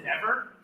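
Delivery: NEVER said as ne-VER; weight on second syllable. Shown as a demonstration. Director asking choir about wrong stress, ne-VER. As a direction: lean on the end of NEVER, ne-VER. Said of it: "more weight on the second syllable".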